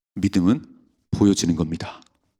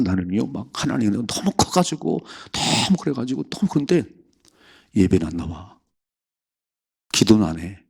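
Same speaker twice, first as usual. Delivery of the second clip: mocking a big talker; 2 semitones higher than usual. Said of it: "말쟁이지요".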